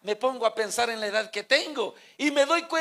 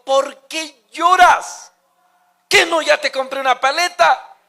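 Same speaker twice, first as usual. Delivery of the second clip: exasperated father; 6 semitones higher, 10 dB louder than usual. Retold or imitated. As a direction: stretch out the why like a fed-up dad. Father scolds crying child.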